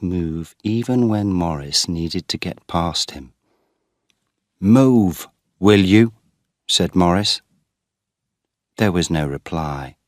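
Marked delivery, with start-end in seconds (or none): 4.6-6.1 a sharp, louder push; impatient demand. A narrator's reading. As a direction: snap it at him. Irritated brother demanding.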